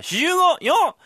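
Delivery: high shouted cheer; shouted number with a cheer; loud cry. Acted. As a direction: call it out like a cheer. Fool cries number with cheer.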